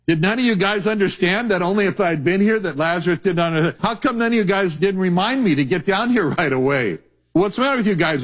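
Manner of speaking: nada lebih tinggi, cepat, heran dan menegur; exasperated Jesus. Acted. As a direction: menegur murid-murid dengan gemas. Preacher acts Jesus scolding disciples.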